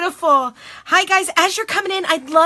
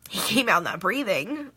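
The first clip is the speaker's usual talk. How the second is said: choked up, lower and halting; real tearful; 4 semitones lower, 4 dB quieter than usual. Real, not acted. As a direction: push the words out through tears. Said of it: "I can't believe I'm crying".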